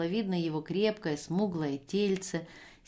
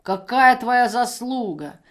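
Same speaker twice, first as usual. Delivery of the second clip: put-on slow, much louder drunken exclamation; exclaiming; 4 semitones higher, 9 dB louder, slower than usual. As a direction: drag it out, loud and sneering. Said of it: "воскликнула она". (пьяно, громко и протяжно восклицая)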